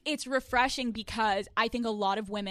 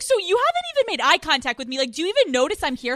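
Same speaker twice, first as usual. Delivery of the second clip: high, loud, fast whining complaint; whiny guy voice; 6 semitones higher, 9 dB louder, faster than usual. Retold or imitated. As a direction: play the ignored guy, hurt and whiny. Voicing the ignored guy.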